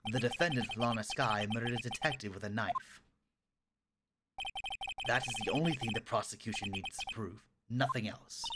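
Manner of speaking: low, condescending courtroom rival; cool, dismissive prosecutor. Acted. Voices the opposing prosecutor.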